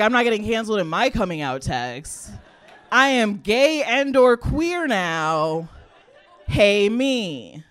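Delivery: lightly voiced mom reading her text, or drawn out slowly; a hint of a proud mom announcing; imitating mom. Mom texting her daughter she's gay, lightly mimicked.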